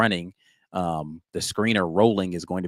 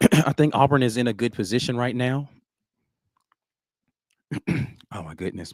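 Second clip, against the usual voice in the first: worn-out, tired voice giving out, pitched up; 5 semitones higher than usual. After talking all day about auburn's game, voice giving out. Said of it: "my voice is going out".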